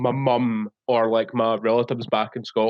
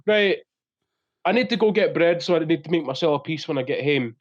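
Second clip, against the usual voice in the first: Scottish slip; faster than usual. Retold or imitated. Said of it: "if I'm like".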